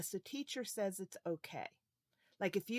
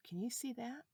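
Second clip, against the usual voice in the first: whisper; 4 semitones higher, 6 dB quieter than usual. Acted. Teacher whispering to the children about the coats. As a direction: let the kids in on a secret, whispering.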